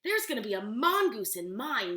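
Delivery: put-on loud boy blurting it out; yelling. Nelson shouting his drawing plan to the class, loud. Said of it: "Nelson yelled".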